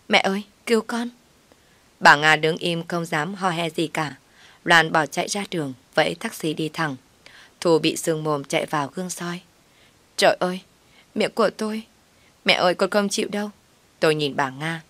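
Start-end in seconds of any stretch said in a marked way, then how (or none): 0.1-1.1 higher, fast, panicked cry to mother; hurt daughter wailing to her mother; yelping for help. Acted. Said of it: "Thu kêu oai oái". 10.2-13.5 whining. Acted. Hurt daughter whines to mother.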